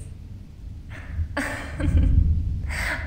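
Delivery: airy high giggle of relief; breathless laugh. Acted. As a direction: laugh breathily, pleased with herself. Ghost delighted at her success.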